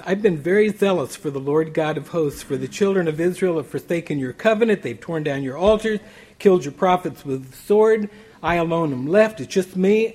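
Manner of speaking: a preacher voicing Elijah's fervent lament; impassioned complaint. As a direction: pour out the protest with rising force. Elijah's complaint to God, read aloud.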